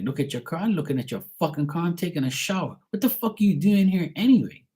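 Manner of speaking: retold exasperation. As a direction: build from disbelief to high exasperation. Retold quarrel with brother.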